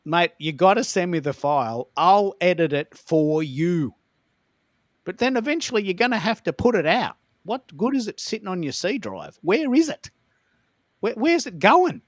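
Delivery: pestering a friend for the episode file; retold pissed off. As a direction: nag him hard about the missing file. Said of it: "I got really pissed off".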